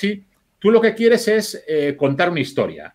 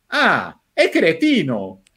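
dismissive verdict; much slower than usual. Retold or imitated. The same editor turning on the driver, lightly imitated with scorn. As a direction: let "cretino" drop as a mild put-down. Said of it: "dice otra frase y dice".

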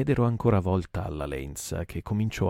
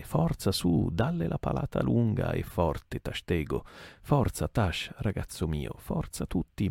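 urging; 2 semitones higher than usual. Acted. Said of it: "gridava Stab".

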